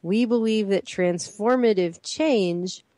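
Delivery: measured, deliberate read-aloud; slow reading. Real, not acted. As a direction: read it out slowly for close attention. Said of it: "let's read that again slowly".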